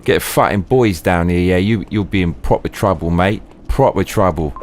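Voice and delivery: mock-threatening London geezer; Cockney hard man. Geezer threatening to call the boys, mock Cockney menace. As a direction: warn them like a Cockney thug.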